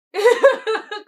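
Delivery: loud, high-pitched laugh; high burst of laughter. Real, not acted. Storyteller laughing at herself for wanting to cry, high laugh.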